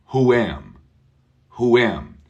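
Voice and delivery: who am joined by a light w, not one word wham; linked who am. Shown as a demonstration. Teacher contrasting linking with wham. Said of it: "We're not saying wham".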